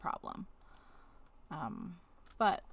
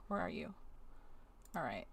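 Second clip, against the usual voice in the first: normal talking voice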